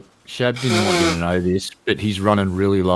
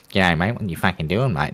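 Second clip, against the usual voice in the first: Aussie accent; 3 semitones lower than usual. Shown as a demonstration. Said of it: "the secret to Aussie".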